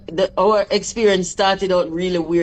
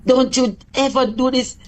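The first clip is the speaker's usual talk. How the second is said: higher-pitched mock scolding; retold cussing-out; 6 semitones higher than usual. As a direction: replay a firm telling-off. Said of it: "I cussed and I cussed".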